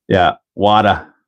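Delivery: whispered, slow New York "Wada". Retold or imitated. Answering chat about the New York accent. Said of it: "the New York accent".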